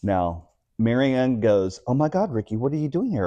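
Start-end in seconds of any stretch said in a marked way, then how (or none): 1.8-3.2 surprised greeting. Retold or imitated. Old friend spots him at gay bar.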